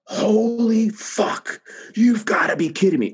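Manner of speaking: high, very slow startled cry of shock; a doctor suddenly spotting a shocking result, panicked high cry; scared startled outburst. Retold or imitated. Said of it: "fear in his voice".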